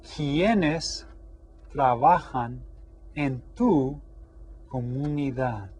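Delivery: slow, clear teacher model; careful classroom Spanish; slow model question. Shown as a demonstration. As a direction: read it out slowly for learners. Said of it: "The question is".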